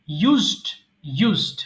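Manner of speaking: "ইউজড" ending straight in st, no extra vowel; one-syllable used. Shown as a demonstration. Teacher modelling a commonly mistaken word, one-syllable pronunciation. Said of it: "common mistake".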